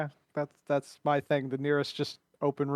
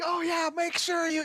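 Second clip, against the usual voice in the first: high, slow mock stage whisper with full voice; exaggerated, high-pitched conspirator; mocking loud whisper; 11 semitones higher than usual. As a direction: imitate someone failing to keep it secret. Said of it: "he's gonna do one of those".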